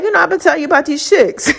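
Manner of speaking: fast, laughing through the words; quick and amused, laughing. Retold or imitated. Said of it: "It's like".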